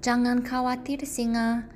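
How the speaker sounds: seru lebih tinggi dan keras; seruan menenangkan. Acted. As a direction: panggil singa dari jauh. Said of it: "teriak tikus". (tikus menyeru singa yang terjebak, tinggi)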